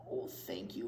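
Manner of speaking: low, soft whispered thanks. Acted. Coughing lady thanking Luigi for the candy, in a low whisper. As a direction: breathe the thanks without voice. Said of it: "whispers the lady".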